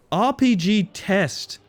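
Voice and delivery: slow dread. Real, not acted. Dread at upcoming test.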